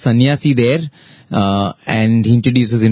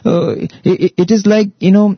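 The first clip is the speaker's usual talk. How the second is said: raised, lively lecturing king voice; king scolding; 7 semitones higher than usual. Retold or imitated. King chiding the weeping messenger, raised and emphatic.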